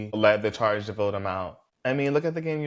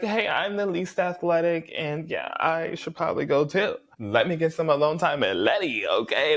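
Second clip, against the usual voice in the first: higher, sly faux-innocent voice; lightly voiced Dixon angling to be alone with Letty; mock Dixon; 6 semitones higher than usual. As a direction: play it coy, angling for time with Letty. Voicing Dixon's sly excuse.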